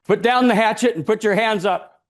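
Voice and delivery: stern cop ordering surrender; police command. Acted. Policemen ordering the man to drop the hatchet, loud.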